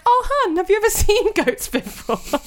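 high, slow, loud patronising coo; mock patronising. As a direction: talk down to him like a child. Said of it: "I was like".

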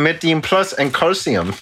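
put-on German label reading; mock German accent. Host echoing co-host's label reading, mock German accent. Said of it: "do offensive German accents right now".

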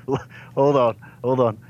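cracking up at the villain's hypocrisy; incredulous laughing disbelief. Real, not acted. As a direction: pitch jumps high, breaking into laughter. Player incredulous at villain's word.

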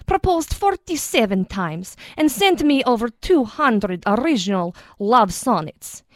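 put-on light Russian accent; a hint of a Russian accent; lightly voiced Russian accent.

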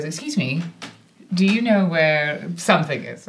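lightly put-on British accent. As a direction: politely ask as a British passerby. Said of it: "now I'm going to do a British accent".

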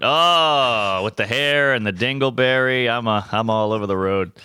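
groggy hungover talk; a hungover morning voice. Real, not acted. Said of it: "Sorry, I'm hungover and gay".

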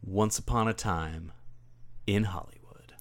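hushed, dramatic title whisper. Acted. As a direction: breathe the title like a secret.

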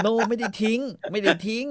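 high, laughing mock denial; hammed-up foreigner insisting he didn't throw it; mock protest. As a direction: squeak out a fake innocent denial. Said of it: "แต่เขาก็บอกว่า".

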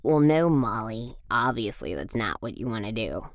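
a hint of a low, scoffing know-it-all; lightly voiced know-it-all. Low condescending figure.

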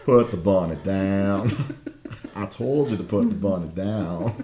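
put-on slow, drawled Southern redneck accent; Nick Cage's redneck. Quoting Nick Cage in Con Air to a co-host, slow Southern redneck drawl. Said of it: "he explored his inner redneck".

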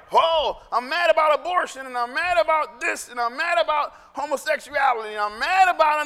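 mocking angry churchgoer. Pastor mocks church folk ranting about issues. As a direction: mimic the outraged religious complaint. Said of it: "Not a weird like".

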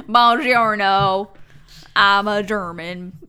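slow, badly faked German accent with Southern drawl; failed German accent. Showing how her attempt at German feels, badly faked accent. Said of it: "even this hint of German accent".

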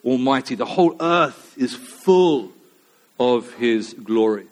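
loud, ringing proclamation, slowing to the end; antiphonal calling. Acted. Seraphim calling to one another in the temple, calling out. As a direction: call it out in measured, emphatic phrases. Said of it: "this antiphonal calling".

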